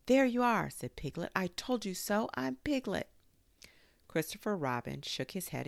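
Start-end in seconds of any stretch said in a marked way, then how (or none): 0.0-0.7 high, loud little squeal; squeaky told-you-so; triumphant. A narrator's reading. Piglet triumphant at being vindicated. 1.3-3.1 high squeaky insistence; little piglet proving a point; triumphant. A narrator's reading. Piglet triumphant at being vindicated.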